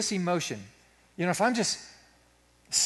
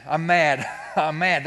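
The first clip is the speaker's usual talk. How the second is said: louder, laughing realization; mock triumphant; 5 dB louder, slower than usual. Pastor answering his wife, announcing it louder with a laugh. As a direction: land on it with a laugh.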